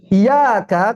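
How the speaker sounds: "Iya, Kak" high, with an undoubled y; misread without tasdid. Shown as a demonstration. Ustadz showing the misreading, high "Iya, Kak" without tasdid. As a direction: raise "Iya, Kak" and keep the y single. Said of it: "kalau nggak ditasdid artinya".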